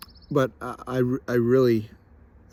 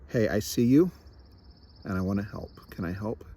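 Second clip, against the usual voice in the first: kind offer. Retold or imitated. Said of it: "Katie very kindly called and said".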